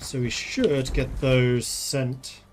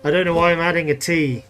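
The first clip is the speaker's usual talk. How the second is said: louder, emphatic, stress on why; loud amused; 5 semitones higher, 9 dB louder than usual. Real, not acted. Streamer loudly mocking his own added T. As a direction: push it out, half laughing at yourself. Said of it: "'cause that's the whole joke".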